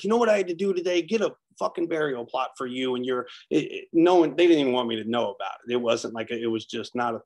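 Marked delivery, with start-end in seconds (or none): 0.0-2.9 louder, higher, fast exasperated dad rant; frustrated dad. Pretend. Father at dinner complaining to his son, exasperated. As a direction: vent at the dinner table about a rotten day. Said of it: "my dad's frustrated".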